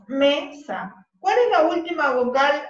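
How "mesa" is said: "mesa" split into me and sa; syllable by syllable. Shown as a demonstration. Teacher showing the class two syllables, "mesa" split me-sa. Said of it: "Y mesa en dos".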